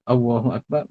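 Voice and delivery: Allahu Akbar slurred as awahu akbar; sloppy Allahu Akbar; wrong takbir. Retold or imitated. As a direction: imitate a careless takbir with a w. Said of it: "kalau seorang tu sebut".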